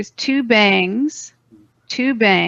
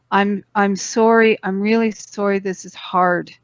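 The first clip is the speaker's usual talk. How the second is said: sincere apology; 2 semitones lower than usual. Shown as a demonstration. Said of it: "the most powerful one for me".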